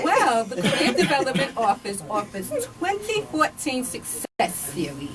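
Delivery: announcer read, laughing into it; newscaster voice. Acted. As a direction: read it like the evening news. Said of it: "I'm going into my newscaster voice".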